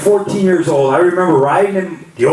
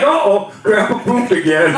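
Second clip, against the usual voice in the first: put-on kid voice; 4 semitones higher than usual. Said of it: "he'd be like".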